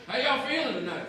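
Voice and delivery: rally the audience with a laugh; calling out to the crowd. Real, not acted. Comic greets crowd, calling out.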